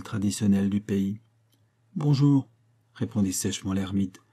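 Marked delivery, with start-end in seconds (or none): 2.0-2.5 curt, hoarse and a little louder; dry hoarse greeting. A narrator's reading. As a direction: snap it out dryly, rasping. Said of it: "de sa voix rauque et bégayante". (bonjour sec et rauque)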